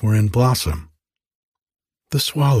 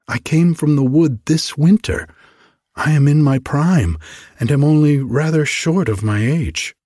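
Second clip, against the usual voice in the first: raised, loud and proud; proud young tree; 5 semitones higher, 3 dB louder than usual. Acted. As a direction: puff up like a boastful youngster.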